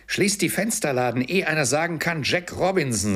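höher, munter antreibend; fröhlich rufend. Acted. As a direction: treib die Jungen vergnügt an. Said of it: "rief der alte Fezziwig". (Fezziwig treibt seine Lehrlinge vergnügt zur Eile)

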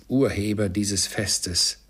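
slow sarcastic repeat of Urheber dieses Festes; wife mocks Bob's toast to Scrooge; mocking echo. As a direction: echo his words with scorn, slowly. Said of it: "rief Misses Cratchit".

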